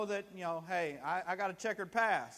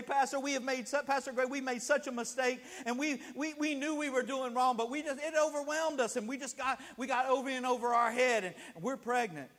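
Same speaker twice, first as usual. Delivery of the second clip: pleading, higher-pitched mock confession; retold tearful confession; 4 semitones higher than usual. Young couple confessing to their pastor, mock tearful pleading. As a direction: blurt it out higher, imitating an upset teenager. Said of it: "we're crying, we're carrying on".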